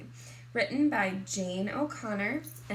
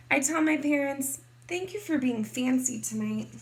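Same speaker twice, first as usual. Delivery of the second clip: lively, expressive picture-book narration; story reading to children; 4 dB louder than usual. A narrator's reading. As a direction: read it to kindergartners, playing up key words.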